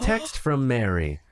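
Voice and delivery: slow flat robotic car voice. Acted. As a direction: read it out like a text-to-speech robot. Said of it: "in a robotic voice saying".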